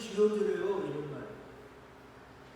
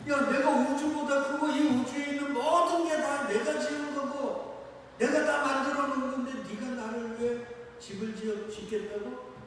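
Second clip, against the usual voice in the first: God rebuking; 4 semitones higher than usual. Acted. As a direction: scold like a mighty God, then trail down. God rebuking David, voiced. (다윗을 책망하는 하나님 목소리)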